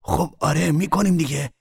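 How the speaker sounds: loud, high, exasperated; heated defensive comeback; irritated retort. A narrator's reading. Man answers back in quarrel.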